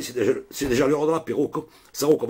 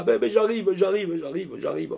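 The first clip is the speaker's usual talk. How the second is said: mock panic; 8 semitones higher than usual. Tearful friend answering the phone.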